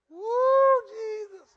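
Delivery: high, loud whoop then praise; mock surprised praise cry; joyful whoop. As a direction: whoop like you just saw your own age in the mirror. Imagined praise exclamation.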